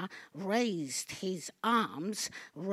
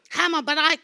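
loud triumphant cry; 8 semitones higher, 12 dB louder, much faster than usual. Acted. Triumphant climax.

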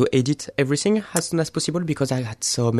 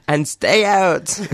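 drawn-out, higher-pitched playful call; protesters' mock command; 5 semitones higher, 3 dB louder, much slower than usual. Quoting a protest drawing to the co-host, mock command. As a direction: call it out slowly, in mock dismissal. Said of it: "the First Nation people saying".

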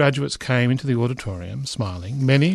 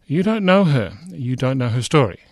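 retold rebuke; 3 dB louder than usual. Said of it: "Jackson stopped and said".

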